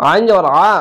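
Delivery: আ said thick from a squeezed throat; thick guttural আ; throat-pressed ain. Shown as a demonstration. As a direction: squeeze the throat for the heavy আইন in আ. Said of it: "আইনটিকে মোটা করে গলা চিপে পড়বেন".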